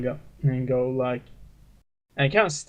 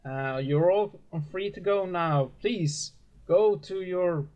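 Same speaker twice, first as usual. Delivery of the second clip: a lightly voiced, gently raised preacher dismissing the flock; 2 semitones higher than usual. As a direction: send the workers off kindly. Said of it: "the preacher kinda goes like".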